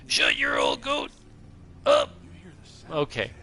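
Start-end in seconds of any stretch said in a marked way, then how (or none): 0.1-2.1 very low, slow mock shout; Mozak. Streamer impersonating a chatter, deep slow shouted impression. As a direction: growl it out deep and slow in a put-on voice. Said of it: "That was my impersonation".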